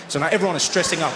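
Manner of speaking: normal talking voice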